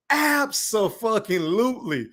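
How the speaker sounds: lightly voiced Floyd Mayweather drawl; a hint of Floyd on the big word. Streamer thanking a donor, lightly imitating Floyd Mayweather. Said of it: "in my Floyd Money Mayweather voice".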